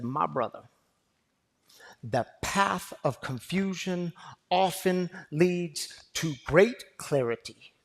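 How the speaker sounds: a slow, calm hint of the old professor; lightly voiced wise elder, slow and measured; calm booming voice. Professor answering a lost student, calm and slow. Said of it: "with this very calm but booming voice".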